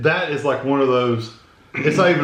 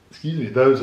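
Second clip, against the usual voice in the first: talking through the hiccups. Real, not acted. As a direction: cut off by a hiccup. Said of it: "I told you I was gonna give me the hiccups".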